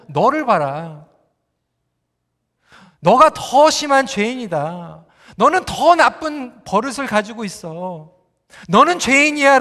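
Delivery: slow, weighty pronouncement, lightly voiced; voice of God. God shows the blaming spouse their own sin, lightly voiced divine rebuke. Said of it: "하나님께서 보여주신 건 뭐냐면".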